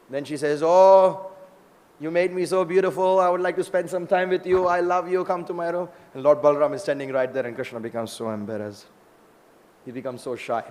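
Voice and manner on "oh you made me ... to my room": slightly raised, gushing plea; lightly acted admirer. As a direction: lightly play a smitten woman. Smitten woman speaks to Krishna.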